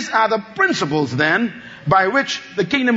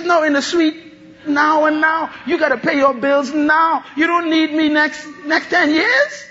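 preaching shout; 5 semitones higher than usual. Acted. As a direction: declare that help comes now. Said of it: "And Christ says".

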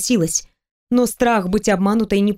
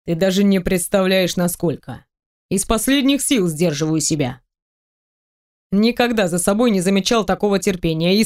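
lightly voiced man. Teasing the heroine about undressing, lightly lowered male voice. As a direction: tease her, playful and sure. Male character confessing desire.

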